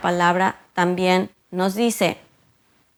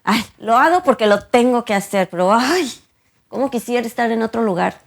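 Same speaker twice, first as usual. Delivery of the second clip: reluctant grumble; 2 semitones higher than usual. Retold or imitated. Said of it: "no tiene la actitud".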